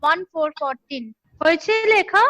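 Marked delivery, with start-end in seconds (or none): 0.1-1.0 each word spaced out for students to write; slow, deliberate classroom dictation. Shown as a demonstration. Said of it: "আমি আস্তে আস্তে dictate করছি".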